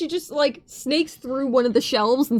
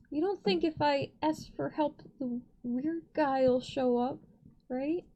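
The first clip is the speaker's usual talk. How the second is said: soft, hesitant question; hushed in-character worry; 6 dB quieter than usual. Acted. Wondering aloud whether the weird guy will show up, hushed. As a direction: ask it quietly and tentatively. Uncertain aside spoken in character.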